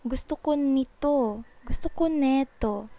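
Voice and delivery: relaxed, casual Tagalog. Shown as a demonstration. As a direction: say "Gusto ko nito" loosely and casually. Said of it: "can you hear the, the way that I say the sentence".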